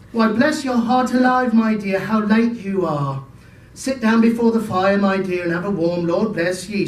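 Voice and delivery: a lightly voiced loving mum; doting mother. Mrs Cratchit greets Martha.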